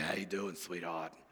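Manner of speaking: very low, deep, soft chain-smoker diner waitress voice. Speaker shows how they sound when sick, chain-smoking Waffle House waitress voice. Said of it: "I sound like a waitress at the Waffle House that's been smoking 7 packs a day".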